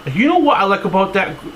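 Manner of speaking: attempted Boston accent. Shown as a demonstration. Restaurant owner praising his manager, in an attempted Boston accent. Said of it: "Let me do my Boston accent".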